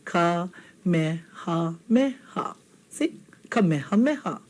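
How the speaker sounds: Kamehameha said slowly, every vowel clear; Kamehameha, unhurried and precise; slow careful Kamehameha. Shown as a demonstration. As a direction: take your time through Kamehameha. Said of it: "Take your time".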